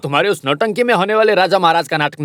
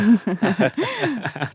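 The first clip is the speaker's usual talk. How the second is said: soft chuckle, higher in pitch; soft laugh; 5 semitones higher, 6 dB quieter than usual. Acted. Uncle greeting his niece, soft laugh. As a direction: let out a quiet little laugh.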